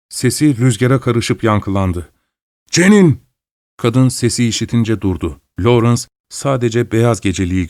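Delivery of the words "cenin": calling her name loud and high; shout. Acted. Husband shouting his wife's name into the storm. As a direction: shout after the sleepwalking wife. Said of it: "diye bağırdı".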